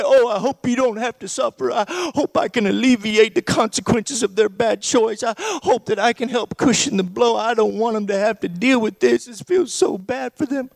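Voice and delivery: put-on light, babyish pleading rescuer; hint of a baby voice. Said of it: "doing the baby voice".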